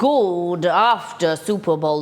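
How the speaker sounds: sing-song greeting. Acted. Streamer opening the show with a hammed-up sing-song greeting. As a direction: greet the chat like a cheery TV host.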